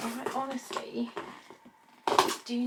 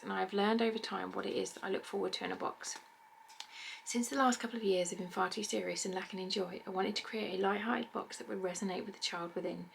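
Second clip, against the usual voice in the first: reading a card. Real, not acted. Reads card from box creator.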